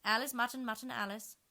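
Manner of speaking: high, loud ceremonious queen; formal introduction. A narrator's reading. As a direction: present them grandly. Red Queen makes introductions.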